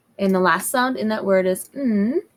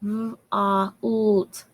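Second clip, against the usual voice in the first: segmented sounding. Shown as a demonstration. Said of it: "say it a little faster".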